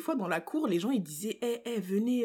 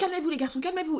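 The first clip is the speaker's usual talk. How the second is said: mock-panicked put-on voice, much higher; 8 semitones higher than usual. Recalling boys faking a fight at school, imitating the teacher: imitating a panicking teacher. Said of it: "elle paniquait et tout".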